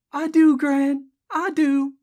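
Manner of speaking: high, slow reassurance; soothing. A narrator's reading. Jessie answers her grandmother, soothing. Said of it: "Jessie soothed".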